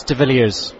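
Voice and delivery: "de Villiers" as di VIL-ee-uhz; surname pronunciation demo. Shown as a demonstration. Guest telling host his surname, "de Villiers" said di VIL-ee-uhz. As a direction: stress VIL in "de Villiers", end on a z. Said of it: "how do we pronounce your surname".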